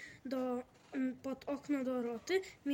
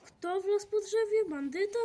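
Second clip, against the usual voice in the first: loud question; 7 semitones higher, 7 dB louder than usual. A narrator's reading. Deaf old neighbour calls from his balcony, loudly alarmed. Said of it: "spytał dziadek Frączak".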